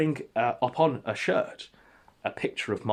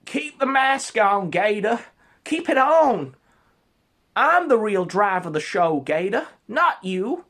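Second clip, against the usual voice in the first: commanding shout; 11 semitones higher, 8 dB louder than usual. Retold or imitated. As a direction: bark orders at a cowering underling. Ralph commanding Gator.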